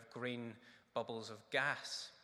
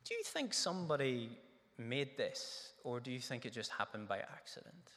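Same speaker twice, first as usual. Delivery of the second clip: gentle question. Shown as a demonstration. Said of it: "It's a good way to start".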